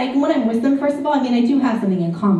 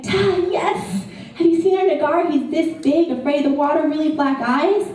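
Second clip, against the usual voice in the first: high, cheerful and clueless; brightly oblivious, eager to help; chirpy reply; 7 semitones higher than usual. Retold or imitated. Answering the shocked lady on the beach, high and chirpy.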